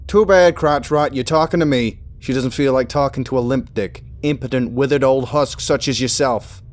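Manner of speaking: mocking tirade at the official; scornful insults. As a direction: sneer and spit the insults. Student insults the megaphone man.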